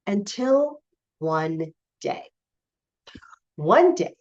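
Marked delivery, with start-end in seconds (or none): 0.1-2.2 "Until one day" said slowly and softer, drawn out; slow, hushed "Until one day". Shown as a demonstration. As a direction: let "Until one day" hang, slow and quiet for suspense.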